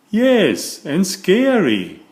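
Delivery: eager friend hinting at a scary mummy; spooky tease. Acted. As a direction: play up the scare for the kids. Beaver teases about the mummy.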